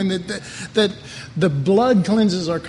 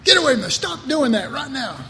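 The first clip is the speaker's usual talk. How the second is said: stern shout; 6 semitones higher, faster than usual. Retold or imitated. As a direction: snap at the naughty kids. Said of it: "I'd say".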